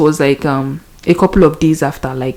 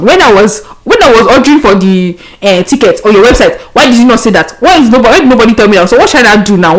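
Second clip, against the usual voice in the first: exasperated traveller scolding airline staff at the check-in counter; indignant complaint; 3 semitones higher than usual. Retold or imitated. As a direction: demand answers from the airline staff.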